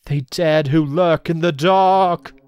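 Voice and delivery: very slow, loud possessed incantation; slow deep voice. Acted. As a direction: chant it like a possessed spirit. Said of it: "in a slow, deep voice".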